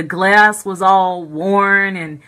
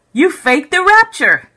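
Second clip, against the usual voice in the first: high, louder and slower in disbelief; retold shocked accusation; 9 semitones higher, 5 dB louder than usual. Dreamer confronting fallen angels, shocked and accusing. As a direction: spell out the betrayal, stunned.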